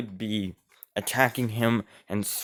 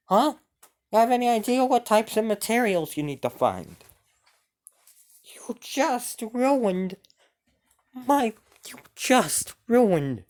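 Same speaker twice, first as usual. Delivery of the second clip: much higher, louder screeching ghost voice; an enraged spirit whose dress was slashed; furious ghost queen; 11 semitones higher, 4 dB louder than usual. Acted. Ghost queen screaming at King Arthur over her ruined dress, furious high shriek. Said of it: "look at him with an angry face".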